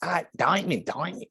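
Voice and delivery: mock awed gasp at a diamond, softly fading; Leonardo DiCaprio in Blood Diamond. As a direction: parody a Hollywood hero muttering over a diamond. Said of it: "Leonardo DiCaprio being like".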